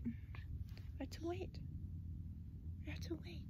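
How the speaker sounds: hushed whisper to viewers; soft whispered aside. Real, not acted. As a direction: keep it down while waiting. Waiting quietly for vehicles.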